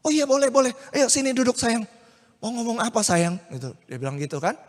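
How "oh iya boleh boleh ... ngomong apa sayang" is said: affectionate Yusuf. Acted. Yusuf sweetly invites Maria.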